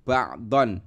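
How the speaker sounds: Ba'don ending on a clear on; tanwin ending. Shown as a demonstration. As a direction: say Ba'don with the final n. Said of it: "Ini bunyinya adalah ba'don".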